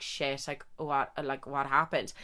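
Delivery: soft, dazed hungover mutter; half-asleep and confused, keep it low; groggy mumble. Retold or imitated. Waking up hungover, asking herself what happened, in a soft daze.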